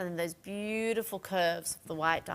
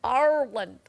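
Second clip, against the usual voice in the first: louder, proud "Ireland"; emphatic Ireland; 4 semitones higher, 8 dB louder than usual. Real, not acted. Host proudly naming the country to viewers. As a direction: land it like a triumphant answer. Punchline after the clover fact.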